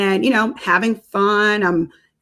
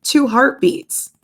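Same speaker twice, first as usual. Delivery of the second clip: high, deliberate technician voice; acted ultrasound technician; 6 semitones higher, much slower than usual. Technician correcting the expectant mother, acted high and deliberate. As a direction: correct the patient slowly, pitched up. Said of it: "She's like".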